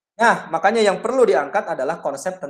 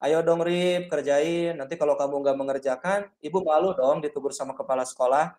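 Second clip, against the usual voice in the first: pleading guilt-trip. Shown as a demonstration. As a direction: beg the pupil so he feels guilty. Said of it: "cenderung intonasinya itu memelas".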